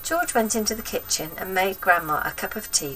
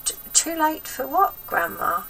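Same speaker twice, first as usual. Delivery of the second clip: nervous stammer; 9 semitones higher than usual. Acted. George voiced in story.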